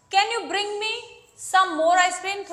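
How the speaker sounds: slow, drawn-out casual request; slow demo. Shown as a demonstration. Teacher modelling a request that barely sounds polite. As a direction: stretch the words for the class. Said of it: "request भी हुई और request भी लग ही नहीं रही है".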